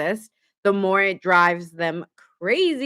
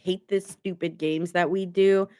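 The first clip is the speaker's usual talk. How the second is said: weary Libra; 3 semitones lower than usual. Retold or imitated. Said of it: "I hear Libra in my mind".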